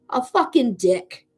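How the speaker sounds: "fucking" dragged out slowly with scorn; slow contempt. Acted. Reader slowly spells out her scorn for the ex. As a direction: spit it slowly, word by word. Venting about the ex.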